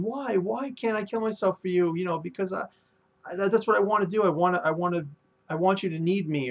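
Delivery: high, pleading cry of why; mock tearful yell. Baby Five begs Sai to let her die for him, high mock plea. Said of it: "she yells at him".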